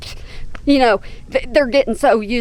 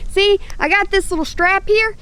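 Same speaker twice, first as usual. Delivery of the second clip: ordinary talk, nothing marked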